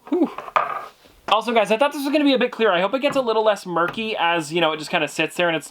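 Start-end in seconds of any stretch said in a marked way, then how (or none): 0.1-0.3 relieved puff of breath; tired exhale. Real, not acted. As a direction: blow out after effort. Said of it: "gives your thumbs a nice workout".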